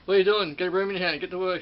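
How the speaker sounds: loud, bossy order from an imagined strict boss; mock-yell it like a strict boss; bossy supervisor.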